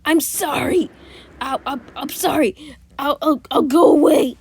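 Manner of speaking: hammed-up sobbing apology; mock crying plea. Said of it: "just practically crying".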